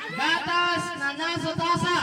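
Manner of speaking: slow, careful tongue-twister demo; slow and clear. Shown as a demonstration. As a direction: spell it out slowly for the kid. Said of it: "Walang maingay, ha?".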